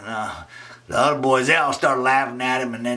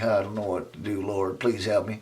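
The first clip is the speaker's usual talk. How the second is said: quiet prayer; 3 semitones lower, 6 dB quieter than usual. Acted. Praying in locker.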